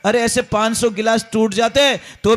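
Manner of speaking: slow, soothing reassurance; calm the crying daughter gently; reassuring mother. Retold or imitated. (धीमे, दिलासा देती माँ)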